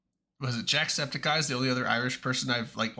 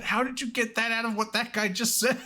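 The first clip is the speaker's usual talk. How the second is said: amused disbelief; 9 semitones higher than usual. Retold or imitated. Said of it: "I'm like".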